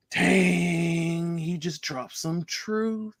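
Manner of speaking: long drawn-out, slow amazement; slow, impressed exhale of words; awed reaction. Retold or imitated. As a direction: stretch it out, quietly floored. Awed reaction to retold wisdom.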